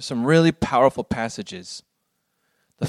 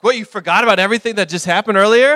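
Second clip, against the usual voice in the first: amused disbelief; 7 semitones higher, 5 dB louder, faster than usual. Retold or imitated. Dad marvels at the kids forgetting.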